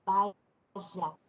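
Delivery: vaya dicho baʒa con ye sonora; ye rehilada. Shown as a demonstration. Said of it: "No es". (vaya pronunciado baʒa)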